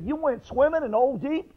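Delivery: can't believe what he hears; disbelief. Retold or imitated. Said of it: "He said".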